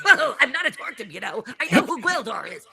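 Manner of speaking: high, loud dwarf character voice; put-on high cartoon voice, protesting; Gwildor. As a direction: break into a squeaky-high cartoon creature, half laughing. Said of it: "Well, we found our Gwildor".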